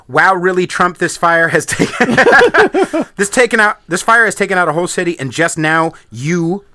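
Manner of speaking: mock all-caps reading. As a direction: mimic an all-caps rant, half-laughing. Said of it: "all in caps".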